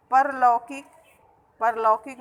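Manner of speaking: short a in the first syllable of परलौकिक; mispronounced परलौकिक. Shown as a demonstration. Teacher showing pupils the common error, mispronounced परलौकिक with short "par". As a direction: say परलौकिक with a clipped "par", not "paar". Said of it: "तो ये अशुद्ध उच्चारण है".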